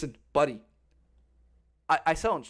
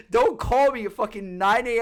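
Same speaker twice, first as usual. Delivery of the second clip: louder, heated telling-off; angry retort; 4 semitones higher, 4 dB louder than usual. Retold or imitated. Telling the threatening attorney off, heated and loud. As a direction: push back hard, voice up.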